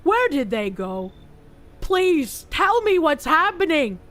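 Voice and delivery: lightly voiced dim-witted boy, worried and lost; dumb voice. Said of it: "I gave him a dumb voice".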